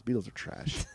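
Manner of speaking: lightly put-on Scottish-English accent; mock Scottish-English accent. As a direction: toss it off in a rough British accent imitation. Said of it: "Scottish slash English accent".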